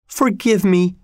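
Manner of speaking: high, pleading cry. A narrator's reading. Dying woman begs her lover's forgiveness, crying out. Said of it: "cried Catherine".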